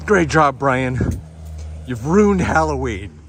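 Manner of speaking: loud, dead-serious accusation; a hint of an outraged father, played straight; deadpan serious dad. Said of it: "He says it with the most serious face".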